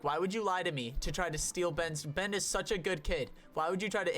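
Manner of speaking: mock teacher telling off, pitch climbing; retold scolding. Teacher tells off the boy for lying, retold scolding. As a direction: imitate a teacher going off on a kid. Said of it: "she just started going off on him".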